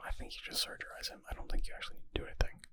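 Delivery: usual speaking voice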